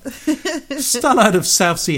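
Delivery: slow, high, drawn-out spooky voice; ghost voice. Retold or imitated. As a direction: stretch it out like a ghost. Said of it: "That's my best impression of a ghost".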